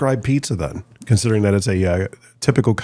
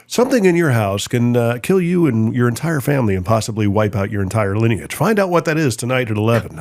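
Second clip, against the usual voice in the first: news tease. Retold or imitated. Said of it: "they're like".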